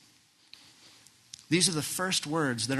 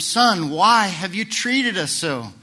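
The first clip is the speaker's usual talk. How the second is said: mother's distress; 4 semitones higher, 7 dB louder than usual. Retold or imitated. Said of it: "His mother said to him".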